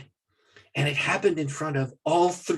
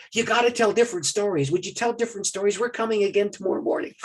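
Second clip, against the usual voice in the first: higher, louder pleas from excited churchgoers; eager urging; 7 semitones higher, 4 dB louder than usual. Retold or imitated. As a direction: urge the preacher eagerly, pitched up. Crowd eagerly urging the preacher.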